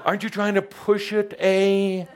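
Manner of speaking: high, amused questioning voice; lightly voiced Ascended Master. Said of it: "they're gonna say".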